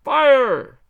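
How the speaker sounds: loudest, highest cry of fire; full-throated yell of fire. Acted. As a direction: bellow it out all together. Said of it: "a little louder".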